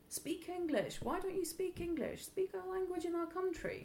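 high, hostile mock voice of a bigot; mocking xenophobe. Imitating a bigot shouting at her family for speaking Bulgarian, high hostile mock voice. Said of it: "are we gonna become a target for".

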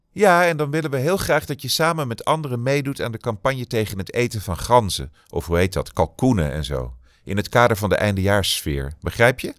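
a campaign organiser pitching to Benny; pushy caller. Acted. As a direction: sell the idea eagerly on the phone.

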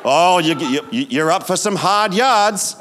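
a touch of fretful pity; mock worry. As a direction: play the gloomy well-wisher. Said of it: "People say to us, like".

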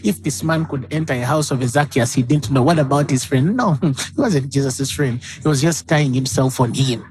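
low, hushed gossip between church ladies. Retold or imitated. Ladies in the corner gossiping about his friend, mock hushed tone. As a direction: trade whispers of scandal in the corner.

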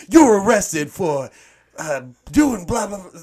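loud, high mock arrest in American accent; super American accent. Police guy arresting him over alcohol, super American accent. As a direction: ham up an American cop's accent. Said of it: "he says it like a super American accent".

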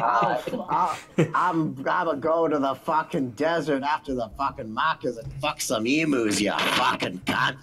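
hammed-up Aussie swearing; Australian accent. Streamer parodying an Aussie for friends, Australian accent. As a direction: rattle off curses in an Australian accent. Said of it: "Australian accent".

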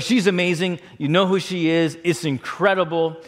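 lovestruck gushing with stammers; mildly acted giddy excitement; excited. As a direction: imitate a friend bubbling over about a girl. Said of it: "I'm just so excited about it".

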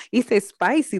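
mock Latina accent, light and a bit high. Host teasing the letter, light Latina accent. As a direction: tease the word spicy in a Latina accent. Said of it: "The Latina president accent".

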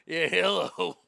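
lightly put-on American helpdesk voice; casual mock quality-control phone greeting; American tech-support agent. American named Akbar taking a Taliban call, lightly caricatured agent. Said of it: "it's an American. And the American's name is Akbar".

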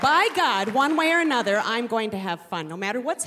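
loud, emphatic vow. Real, not acted. Mother vowing to the audience, loud and emphatic. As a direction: declare it with full force.

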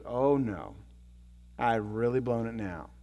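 low, sinking realization; mock sinking dismay. Husband realizing those are tears of sorrow, mock dismay.

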